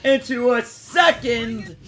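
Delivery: big, slow, hyped-up anime callout; hyped shout. Acted. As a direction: yell it out like an anime duelist. Hyped card play callout.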